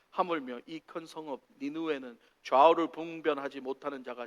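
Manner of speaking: measured formal Bible reading; solemn, evenly phrased recitation; scripture reading. Acted. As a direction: read the passage aloud for the congregation. Reads scripture aloud to congregation.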